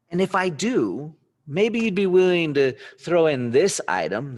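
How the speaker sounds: a picker hyping up his offer; pumped-up salesman pitch; eager buyer pitch. Acted. Buyer makes a big offer.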